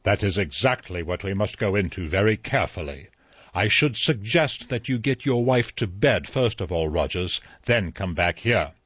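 measured judge authority; authoritative. Acted. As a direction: speak with court authority. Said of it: "spoke with the authority".

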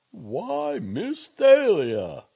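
high, loud, drawn-out dismay; shocked protest. A narrator's reading. Doctor protesting at the girl's outburst, shocked. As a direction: exclaim it slowly, aghast.

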